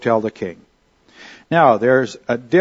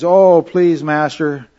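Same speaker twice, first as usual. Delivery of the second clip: a touch of begging, raised and emphatic; mild pleading; 3 semitones higher, 4 dB louder, slower than usual. Retold or imitated. Debtor servant begging his master for time, mild mock pleading. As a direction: lightly act out a servant begging for mercy. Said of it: "the man just pleads".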